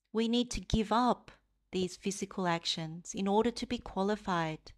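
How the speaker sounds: measured meditation guidance, pausing between phrases; guided meditation. Real, not acted. Teacher leading livestream listeners into loving-kindness practice, guided meditation. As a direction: guide them gently, leaving space to reflect.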